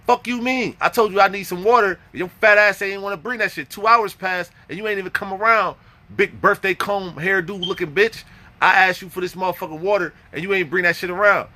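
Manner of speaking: mildly heated mock tirade; indignant rant. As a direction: act out a fed-up complaint. Acting out angry complaint over water.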